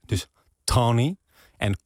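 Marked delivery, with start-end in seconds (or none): 0.6-1.2 Tony with a wet, slightly nasal T; wet Brooklyn T in Tony. Shown as a demonstration. Guest teaching the Brooklyn trick, wet T in Tony. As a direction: wet the T of Tony, drawn slow. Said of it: "de T een beetje nat maken".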